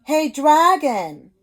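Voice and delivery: a slow, drawn-out call across a cave; shouting. Acted. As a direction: yell it to wake a sleeping dragon. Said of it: "she shouted as loud as she could".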